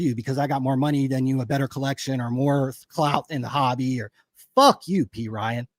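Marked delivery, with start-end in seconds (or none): 4.6-5.7 angry outburst. Real, not acted. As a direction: spit it out at him in real anger. Angry rant at a rival.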